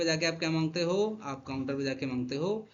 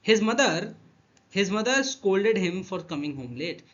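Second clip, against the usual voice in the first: slow sentence reading; 3 semitones higher, 3 dB louder, much slower than usual. Shown as a demonstration. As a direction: read each word very slowly. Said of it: "sentence देखो". (बहुत धीरे वाक्य पढ़ना)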